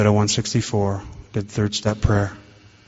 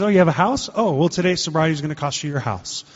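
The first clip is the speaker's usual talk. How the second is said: much higher on oh you have a house, then settling; mock surprise; 6 semitones higher than usual. God feigning surprise at the drunk's house, pitched up. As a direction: act amazed he has a house.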